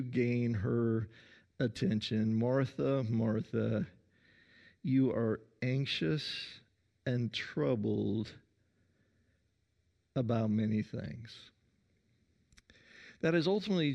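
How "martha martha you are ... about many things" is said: a gentle, understated loving call; lovingly. Acted. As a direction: tenderly get her attention, softening at the end. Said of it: "he's saying that very lovingly".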